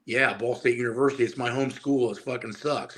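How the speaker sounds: put-on young lifter thinking his local school is nothing; dismissive thought. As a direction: shrug the school off under your breath.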